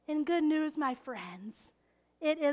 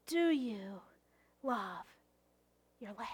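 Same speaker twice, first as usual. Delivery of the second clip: softer asking; 7 semitones lower, 7 dB quieter than usual. Acted. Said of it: "No, really".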